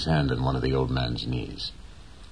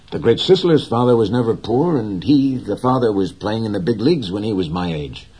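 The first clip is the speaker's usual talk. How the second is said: lightly voiced boy, higher and louder, insisting; young boy, proud; 6 semitones higher, 7 dB louder than usual. A narrator's reading. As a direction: give the boy a raised, proud lift. Boy's voice voiced by narrator.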